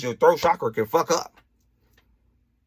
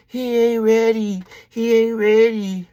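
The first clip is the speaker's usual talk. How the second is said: higher, louder, slow; emphatic declaration; 7 semitones higher, 5 dB louder, slower than usual. Retold or imitated. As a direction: drag out the protest. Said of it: "speaking of himself to God".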